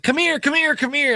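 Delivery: high, insistent come here; tipsy woman beckoning. Retold or imitated. Drunk woman beckons the two men over, high and insistent. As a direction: wave them over like an eager drunk.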